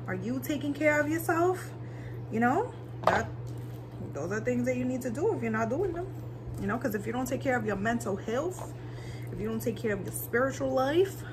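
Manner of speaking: earnest, caring advice to viewers; caring pep talk. Real, not acted. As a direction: speak like a gentle motivational speaker. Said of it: "I don't know why I'm talking like this".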